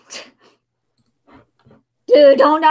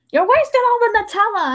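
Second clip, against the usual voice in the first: imitating mom; 8 semitones higher, 3 dB louder than usual. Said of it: "She'll be then".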